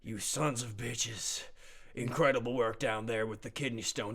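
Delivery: a hint of a proud old officer; gruff commander. GM as commander praising the team.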